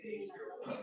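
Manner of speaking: light high mock retort; mock reply. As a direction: toss it back in a high whisper. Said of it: "I always say".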